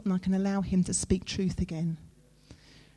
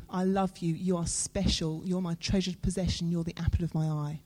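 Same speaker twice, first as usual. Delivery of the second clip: sincere reassurance; 2 semitones lower, 4 dB quieter than usual. Acted. God's sincere words, after the sarcastic take.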